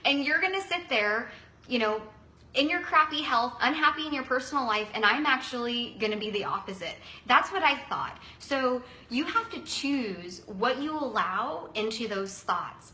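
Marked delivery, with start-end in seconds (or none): 0.0-7.0 defiant. Retold or imitated. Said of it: "I am thinking in my head".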